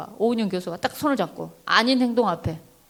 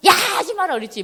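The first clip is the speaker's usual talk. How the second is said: high-pitched acted scolding; snapping mother; 8 semitones higher, faster than usual. Mother skipping straight to anger at her child, high sharp scolding. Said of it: "바로 이렇게, 이렇게 돼요".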